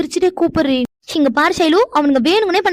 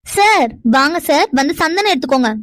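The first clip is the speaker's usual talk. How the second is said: drawn-out welcome, a bit louder and very slow. Acted. Forced to greet the guests louder, a slow drawn-out welcome. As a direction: stretch each word out for the rude guest. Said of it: "அதே மாதிரி இதையும் சத்தமா சொல்லு".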